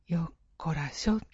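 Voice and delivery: breathy, low grunt of effort; effortful whisper. Acted. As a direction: whisper it as you heave yourself up. Old man heaving himself up.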